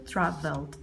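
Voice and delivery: traveled with a voiced D ending; softly demonstrated traveled, -ed said as D; final D sound. Shown as a demonstration. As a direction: finish traveled on a plain "d". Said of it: "porque el verbo termina en L".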